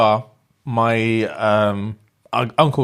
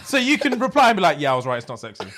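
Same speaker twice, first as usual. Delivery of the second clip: laughing tease; 5 semitones higher, faster than usual. Real, not acted. Teasing co-host through his laughter.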